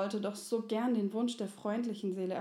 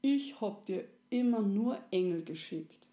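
with a smile. Acted. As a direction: say it gently, smiling. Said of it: "hatte Resi mit einem Lächeln gesagt".

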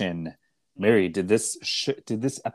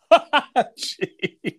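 shocked jeez; 14 semitones higher, 4 dB louder than usual. Real, not acted. Reacting to the crude quote.

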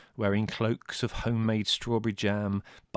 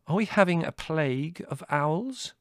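sarcastic inquiry; 10 semitones higher, 5 dB louder than usual. A narrator's reading. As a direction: draw out the mock question. Larry's sarcastic inquiry about owls.

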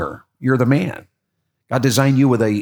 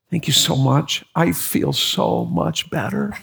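grateful sigh of relief; 3 semitones higher, slower than usual. Retold or imitated. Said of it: "And she goes".

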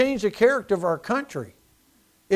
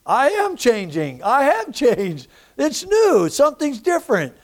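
joyful realization; 4 semitones higher than usual. Retold or imitated. New believer thrilled at his change, building up. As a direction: let the wonder build up. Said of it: "I thought".

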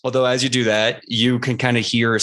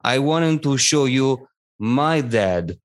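Professor Marrow. Acted. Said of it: "Professor Marrow turns around to everyone".

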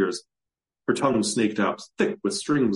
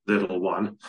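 scoffing. Acted. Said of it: "Kazan scoffed".

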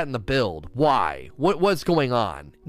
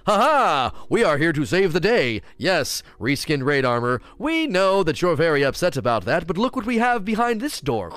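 mock hero Bungie; 3 semitones higher than usual. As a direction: swoop in to save the day, hammed-up. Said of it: "Here comes Bungie".

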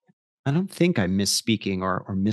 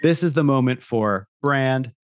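ad voiceover. Acted. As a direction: purr it like a liquor ad. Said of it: "I'll read that again".

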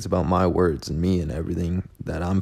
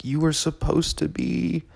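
mock self-scolding; 6 semitones higher than usual. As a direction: scold yourself in a raised, sneering pitch. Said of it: "And I'm like".

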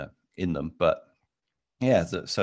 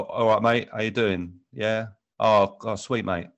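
lightly voiced British football-fan lad talk; 3 semitones higher, 3 dB louder than usual. Mimicking his football-fan brother's chummy greeting, lightly voiced football fan. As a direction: do a matey football fan's greeting. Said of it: "he talks in a much, in a completely different way".

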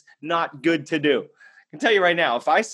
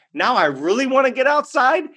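excited; 3 semitones higher than usual. Retold or imitated. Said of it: "starts laughing and going".

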